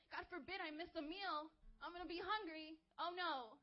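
lightly hammed-up dread; mock dismay. Preacher mocking himself over missing a meal, mock dismay. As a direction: play up a small hardship as a disaster, tongue in cheek.

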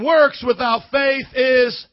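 slow shouted call; preaching shout. Shown as a demonstration. Pastor shouting the line for the church to finish. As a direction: belt it out to the whole room. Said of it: "Come on, say it one more time".

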